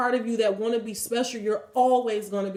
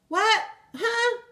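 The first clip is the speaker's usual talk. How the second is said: incredulous; 10 semitones higher than usual. Real, not acted. Incredulous at influencer advice.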